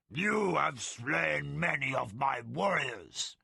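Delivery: slow, weighty creature voice; slow tiger leader. Acted. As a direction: lay the accusation down slowly. Tiger leader accuses captive Pug.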